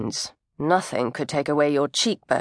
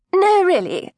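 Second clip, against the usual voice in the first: insistent refusal; 11 semitones higher, 4 dB louder than usual. Acted. Maggie brushing off help.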